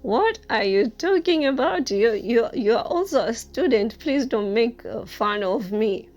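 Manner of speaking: mock-offended kid who thinks he's being teased; angry kid. Boy feels mocked by new student, loud indignant protest. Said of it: "he started getting angry".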